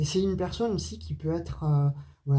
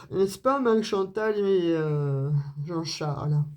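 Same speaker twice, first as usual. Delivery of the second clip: playful mock-posh Parisian accent, pitched up at first; mock accent pointu. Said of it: "j'ai un accent qui n'est pas pointu". (faux accent pointu parisien, pour rire)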